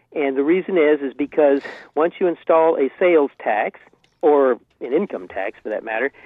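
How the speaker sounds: caller on a landline phone line; phone-line call-in audio; over a landline phone. Real, not acted. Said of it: "calling you from my landline".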